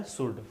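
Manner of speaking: should said as शुड, "shood"; correct should, silent L. Shown as a demonstration. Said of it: "तो आपको क्या बोलना है". (should को शुड बोलें, L चुप)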